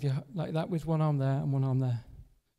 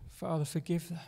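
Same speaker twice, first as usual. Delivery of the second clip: a softer, hushed prayer; Jesus praying softly; 6 dB quieter than usual. Retold or imitated. Jesus on the cross praying for his killers, hushed and soft. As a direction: murmur it like a pained plea for mercy. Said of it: "Jesus said".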